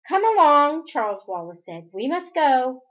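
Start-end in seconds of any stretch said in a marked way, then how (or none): 0.1-0.9 high, forceful summons; loud command. A narrator's reading. Possessed boy orders family to follow, commanding. 1.9-2.8 higher, louder urging; insistent command. A narrator's reading. Possessed boy hurries family along, insistent.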